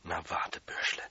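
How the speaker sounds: low, soft menacing hiss; hissed threat. Acted. Janitor hissing a threat at the fleeing boy. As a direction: threaten him under your breath. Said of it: "hat gezischt".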